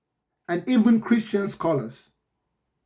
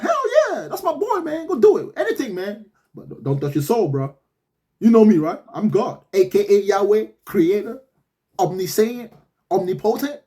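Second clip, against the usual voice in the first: God as a bro. Retold or imitated. God giving the devil the go-ahead, casual bro voice. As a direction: play God as a chill homie, lightly voiced. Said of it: "And God was like".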